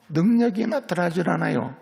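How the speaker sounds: ordinary delivery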